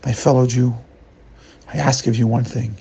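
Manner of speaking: a hint of the wise master, grave; solemn gentle sage. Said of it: "looks deep into his eyes, deep into his soul".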